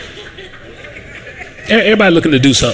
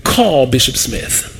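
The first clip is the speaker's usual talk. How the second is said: slow, commanding divine voice; voice of God; 3 semitones lower, much slower than usual. Retold or imitated. The Lord ordering the pastor, slow and commanding. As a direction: give it slow as an order from above. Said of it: "So the Lord says".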